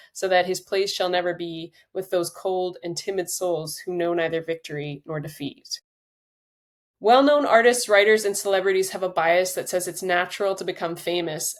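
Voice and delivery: measured audiobook-style reading aloud; book reading. Acted. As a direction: read your own book to listeners, steady and clear. Reads a passage from her book.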